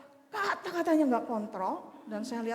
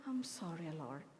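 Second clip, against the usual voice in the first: whispered prayer; 7 semitones lower, 9 dB quieter than usual. Retold or imitated. Quiet prayer of repentance.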